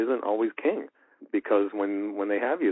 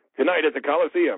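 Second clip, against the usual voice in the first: over-the-top, high monster truck hype announcer, half volume; 5 semitones higher, 3 dB louder than usual. Giving an example of a volume reference point, over-the-top monster truck announcer. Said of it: "that was about half of as big as I usually get".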